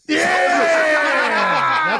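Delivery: loud, high whoop; cheering shout. Real, not acted. Host cheering the chicken tenders celebration, loud whoop. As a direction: whoop for the good news.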